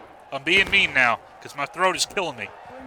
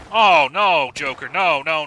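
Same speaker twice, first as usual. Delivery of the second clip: sudden loud oh no; dismayed outburst; 7 dB louder, slower than usual. Real, not acted. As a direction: blurt it out in dismay. Reacting to a play going wrong.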